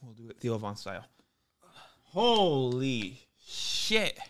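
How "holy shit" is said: stunned. Real, not acted. Reeling after smelling salts.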